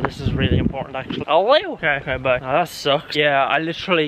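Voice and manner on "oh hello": bright high hello; phone greeting. Real, not acted. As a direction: answer the phone cheerily. Answers phone call.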